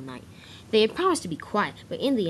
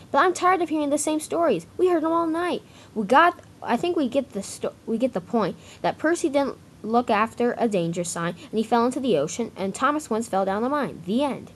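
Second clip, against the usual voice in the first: higher, fed-up voice for Gordon; annoyed engine; 6 semitones higher than usual. Acted. Gordon grumbling to the engines about stories, fed-up. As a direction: complain like a tired engine who heard it all night.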